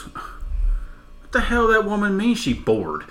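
slow, high, laughing through the words; cracking up while quoting the guy; laughing quote. Retold or imitated. Man baffled his wife is bored, laughing and slow. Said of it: "And he goes".

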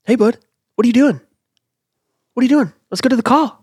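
high, loud Boston tough-guy voice; Mark Wahlberg impression. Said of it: "So Mark Wahlberg is who that was".

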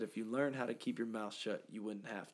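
quiet, gentle; soft voice of God. Retold or imitated. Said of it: "so softly".

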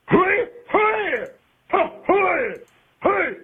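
high mocking "hooey, hooey"; mocking imitation. Caller ridiculing a pundit's catchphrase, pitched high. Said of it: "he sounds like the man".

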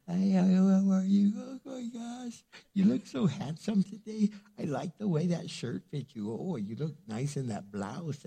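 a hint of a gushing lovestruck teenager; lovestruck teen. Teen on the phone to a crush, mildly gushing.

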